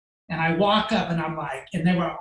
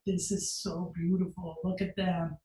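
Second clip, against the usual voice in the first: overly nice; 6 dB quieter than usual. Retold or imitated. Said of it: "And I'm being so nice".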